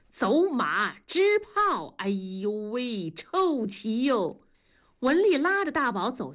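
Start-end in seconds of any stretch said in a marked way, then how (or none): 0.1-4.4 2 远远地吆喝"走马，支炮"，再拖长调子嫌弃臭棋; 3 下棋老头儿起哄似的喊，末尾慢悠悠地拖; 1 喊着下棋. Acted. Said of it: "同志在喊". (4 棋摊上扯着嗓子吆喝，再慢声嫌弃)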